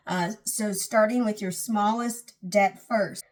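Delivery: yawning while talking; words stretched by a yawn. Real, not acted. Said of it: "I keep yawning".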